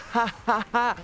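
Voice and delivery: high, loud staged cackle; a put-on triumphant laugh; mock laugh. Real, not acted. Laughs at own joke.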